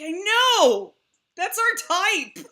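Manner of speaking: high, loud, slow "That's our type!"; gleeful agreement. Retold or imitated. To mom about cousins' type, high excited cheer. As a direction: cheer it like a confession.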